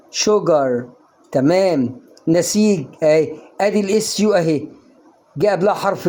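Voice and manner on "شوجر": "شجر" repeated with a clear initial sh; sh sound. Shown as a demonstration. Teacher repeats the correct sugar, "شجر" with sh. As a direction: say "شجر" with sh as in "she". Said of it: "ما أقولش سجر".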